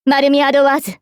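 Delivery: weapon name on a level, steady pitch; measured call of a weapon name; composed invocation. Acted. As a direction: intone マルミアドワーズ evenly, falling at the very end. Calm naming of the weapon.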